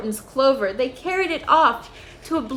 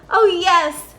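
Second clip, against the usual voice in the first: high, small grateful mayor voice; tiny Who mayor; 7 semitones higher, 7 dB louder than usual. A narrator's reading. The mayor of Whoville thanks Horton, high tiny voice. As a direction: pitch up small and eager like a tiny townsman. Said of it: "piped the voice".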